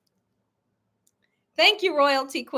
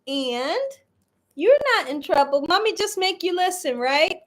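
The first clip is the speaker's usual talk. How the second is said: cooing to dog. Real, not acted.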